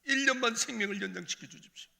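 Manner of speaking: loud, high 일 년만 생명을 연장시켜 주십시오; desperate plea. Retold or imitated. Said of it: "하나님". (하나님께 부르짖는 간청)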